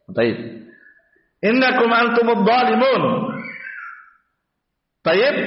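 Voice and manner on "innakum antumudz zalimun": measured, carrying Quran recitation; full-voiced recited Arabic; verse recitation. Shown as a demonstration. Reciting the same verse aloud.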